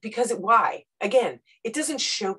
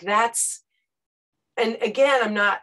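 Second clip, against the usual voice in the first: normal talking voice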